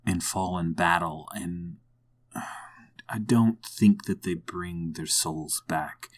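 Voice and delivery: subdued and low, sighing over lost friends; grim, sorrowful reflection. Acted. Player as Plessy mourning fallen friends, hushed and sorrowful.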